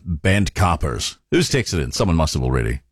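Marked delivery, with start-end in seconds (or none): 0.1-1.2 slow, drawn-out Welsh accent on "bent coppers". Shown as a demonstration. Radio host doing the Line of Duty actor, slow Welsh accent. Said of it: "it's a Welsh accent for the lead actor".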